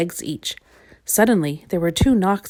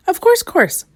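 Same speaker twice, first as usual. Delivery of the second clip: high, louder smiling welcome; 13 semitones higher, 6 dB louder, slower than usual. A narrator's reading. Twin agrees to give visitor water, smiling. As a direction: lift it high with a smile, eager to oblige. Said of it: "smiled Little Miss Twin".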